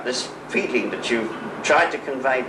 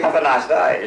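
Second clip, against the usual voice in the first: put-on Australian accent; 3 semitones higher, 3 dB louder than usual. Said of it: "as they say in Australia".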